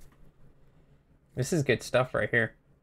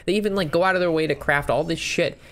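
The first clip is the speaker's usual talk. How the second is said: higher, fed-up complaint; exasperated rant; 5 semitones higher than usual. Real, not acted. Streamer venting about netdeckers, fed up. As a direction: complain like you've seen it a hundred times. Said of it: "Sorry for that little rant there".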